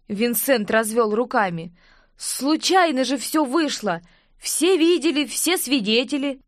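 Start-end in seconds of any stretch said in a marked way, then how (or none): 2.2-6.4 pleading protest. Acted. Protesting innocence to the king.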